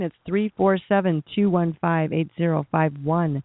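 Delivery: phone number rattled off quickly; said fast. Real, not acted. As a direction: rush through the digits. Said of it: "I said that fast".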